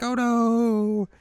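very high cartoon dismay; mock alarm. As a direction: squeal it in put-on fear. Retold heroine's reaction to threat.

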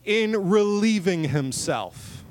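slow, mock-prim phrasing; slow mock-dignified euphemism; mock formal quote. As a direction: say it with exaggerated politeness. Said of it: "Elijah said".

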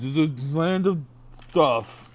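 slow, dramatic trailer narrator; movie trailer voice. Pretend. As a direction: intone it like an epic trailer. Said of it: "the movie voice for the thing".

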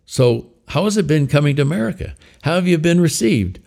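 ventriloquist host voice. Acted. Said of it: "David interviews the puppet".

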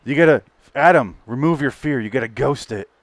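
lightly imitated space accent from After Earth; mock space accent. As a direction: quote the line in a faint, odd space accent. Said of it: "he talks in a space accent".

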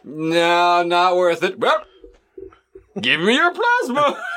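Muppet voice. Acted. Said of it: "That's why I'm doing that voice".

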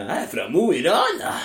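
lightly put-on northern Norwegian dialect; a hint of a Mo i Rana accent. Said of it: "Hvordan er det?".

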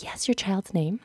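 lightly voiced check-in lady; registration lady. Lady asks at check-in, softly businesslike. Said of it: "she's like".

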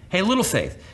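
mock name-calling. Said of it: "calling him like a name".

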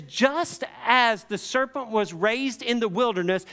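high, driving sermon narration; impassioned preaching. Real, not acted. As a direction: preach it with rising urgency. Preaches at full force.

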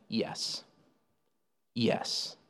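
Jesus answering the priests, hushed and calm; calm quiet reply. Retold or imitated. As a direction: let the answer drop low and settle it.

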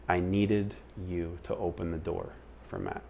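softly spoken, retold divine answer; gentle. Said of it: "She said, just really gently".

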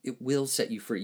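"will" leaned on, the rest even; stress on will. Shown as a demonstration. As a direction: hit the word "will" in "it will set you free". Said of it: "he says will".

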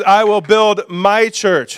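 slow, "build" hit hard; stress on BUILD. Shown as a demonstration. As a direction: preach "build" with weight. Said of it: "And then he says".

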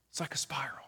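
hushed whispered echo; soft whispered repeat of the image. Shown as a demonstration. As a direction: breathe the words out as a whisper.

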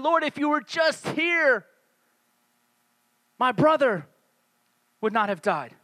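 understated pleading, broken by long pauses; tearful despair. Acted. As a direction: plead haltingly, as if in mild despair. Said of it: "in utter despair and pain and tears".

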